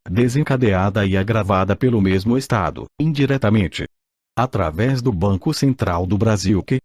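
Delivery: robotic text-to-speech voice; even, machine-read narration. Real, not acted. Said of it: "com a utilização de voz sintetizada". (voz sintetizada antiga)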